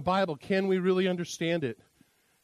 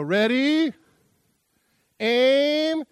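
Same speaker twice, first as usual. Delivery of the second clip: loud, higher barked firing orders; hunter's command; 7 semitones higher, 6 dB louder, much slower than usual. Acted.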